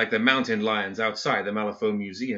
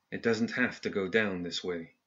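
soft, low, private warning; 7 dB quieter than usual. Acted. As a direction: keep it low so only one hears. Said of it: "said in a low voice that only".

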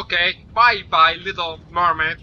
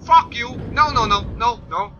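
angry yell; 5 semitones higher than usual. Real, not acted. Gamer yelling at a gate that shut, furious. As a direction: swear at it at full voice.

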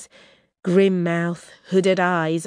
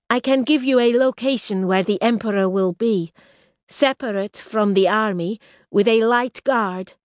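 raised, urgent bargaining princess voice; Risha, proud princess; 6 semitones higher, 4 dB louder than usual. Acted. Exiled princess tempting her enemies, raised and urgent. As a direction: press the offer, pitched high.

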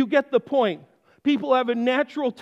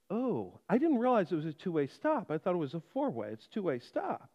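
low, soft sheepish excuse; 4 semitones lower, 9 dB quieter than usual. Retold or imitated. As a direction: mumble the excuse lower and much softer.

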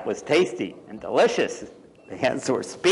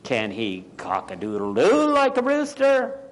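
bossy hen; 2 semitones higher than usual. Acted. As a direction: challenge it like a bossy storybook hen. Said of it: "said one bossy hen".

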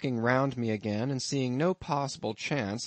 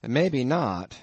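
amused landlord; 2 semitones higher, 4 dB louder than usual. Acted. Innkeeper teasing his lodger about the harpooneer, lightly voiced. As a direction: spin the tale with a sly chuckle underneath.

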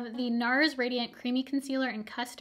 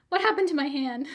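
startled; 3 semitones higher, 6 dB louder than usual. Real, not acted. Just got an electric shock.

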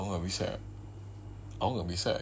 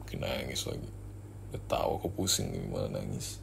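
low, much softer grumble under the breath; annoyed mutter; 12 semitones lower, 7 dB quieter than usual. Acted. Grumbling aside about the girlfriend crying harder, low and soft. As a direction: grumble to yourself so she won't hear.

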